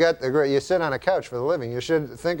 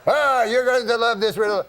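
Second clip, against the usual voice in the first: put-on eager, higher French-Canadian accent; Jean-Luc impression; 6 semitones higher than usual. Uncle hypes the riddle to his wife, higher French-Canadian accent. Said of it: "That's how he talks".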